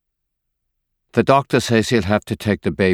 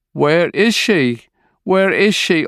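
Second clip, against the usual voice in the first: screaming; 10 semitones higher than usual. A narrator's reading. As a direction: scream it in grief. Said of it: "She screams".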